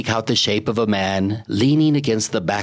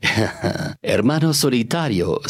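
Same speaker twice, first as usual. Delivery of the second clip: snickering; 3 semitones higher, slower than usual. Acted. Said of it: "snickered the shadow to him".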